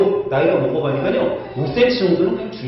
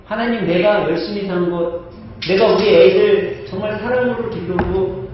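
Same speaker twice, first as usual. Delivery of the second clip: humble prayer. Acted. Hezekiah's true humble prayer.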